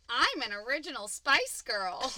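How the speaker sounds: high, drawn-out witch quote; movie witch. Retold or imitated. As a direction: announce it grandly as a hammy witch. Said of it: "one of them goes".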